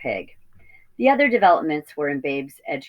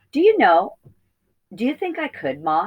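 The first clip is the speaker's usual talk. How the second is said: put-on high, eager young piglet voice; a small pig hoping for a yes; eager little piglet; 5 semitones higher, 4 dB louder than usual. Piglet Babe asks the old ewe.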